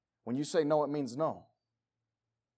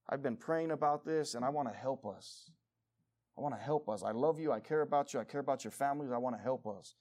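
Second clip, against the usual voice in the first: softer, sincere appeal; sincere reassurance; 3 semitones lower, 5 dB quieter than usual. Real, not acted. Pastor to his congregation, soft and sincere. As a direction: reassure them gently.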